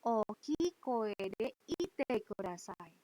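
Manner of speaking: slow, deliberate classroom request. Shown as a demonstration. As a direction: spell out the request slowly for students. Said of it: "saya selalu bilang seperti ini".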